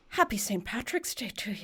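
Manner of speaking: hushed hint of an Irish greeting; mock Irish man. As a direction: quietly put on the old Irishman's greeting. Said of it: "And he said".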